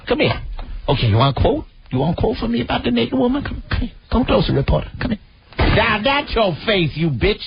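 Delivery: a light mock of the woman's voice. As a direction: mimic her calling the reporter closer. Still mimicking her to reporter.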